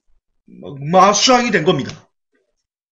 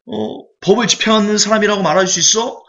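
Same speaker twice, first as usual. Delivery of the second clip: higher, pointed scolding at the judge; cursing at the judge; 6 semitones higher than usual. Retold or imitated. Father in the film rails at the judge, angry and high. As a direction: jab a finger and rail at the unfair judge. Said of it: "욕을 하면서".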